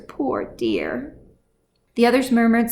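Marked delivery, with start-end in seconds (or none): 0.1-1.1 tender. A narrator's reading. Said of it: "She cuddled the child closer".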